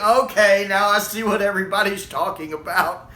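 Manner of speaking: emphatic "okay", easing off after; retold realization. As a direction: act out the moment it dawned on you. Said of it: "and then I was like".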